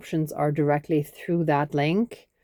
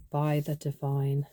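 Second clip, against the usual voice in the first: guided meditation. Acted. Leads a body brushing ritual.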